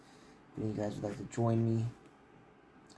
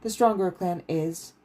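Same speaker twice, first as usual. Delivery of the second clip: higher, stern lecturing voice; stern teacher; 6 semitones higher, 7 dB louder than usual. Acted. Stern Wu Taohua lecturing the clan heir, higher voice. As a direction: pace and pronounce it with cold authority.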